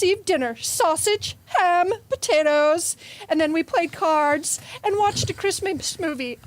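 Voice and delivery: sweet pious girl, lightly played; church girl. Improv player voices a pious church girl's memory. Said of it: "when you switched to the church girl".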